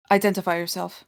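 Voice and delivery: cold machine voice, level and even; robotic voice. Acted. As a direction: speak like a warforged construct. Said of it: "In a robotic voice, the Warforged speaks".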